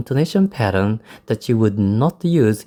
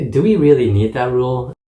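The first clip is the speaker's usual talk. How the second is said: "Do we really need that rule?" asked with rising intonation; rising question intonation; 3 dB louder, faster than usual. Shown as a demonstration. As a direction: quote yourself questioning, "rule" lifted as a question. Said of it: "I used the rising intonation".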